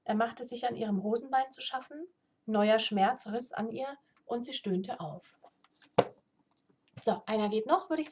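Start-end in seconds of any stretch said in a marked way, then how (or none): 0.0-5.4 reading a fantasy novel aloud; steady storyteller read; story narration. A narrator's reading. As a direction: tell the tale evenly to listeners.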